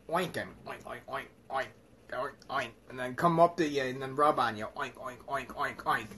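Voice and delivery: soft imitated oinking; quietly oink like a friendly pig. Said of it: "It'll come up, like".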